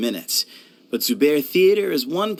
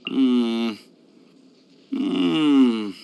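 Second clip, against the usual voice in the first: tag; 2 semitones lower than usual. Acted. Tasting food, cannot taste anything.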